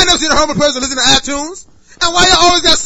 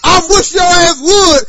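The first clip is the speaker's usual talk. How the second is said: yelling. Real, not acted. Yelling at homeless listeners.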